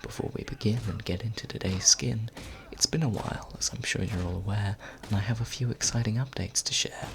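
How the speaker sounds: whispered rhyming intro, close to the mic; breathy ASMR whisper, close up; right in your ear. Acted. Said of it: "I also hope you don't mind my voice in your ears".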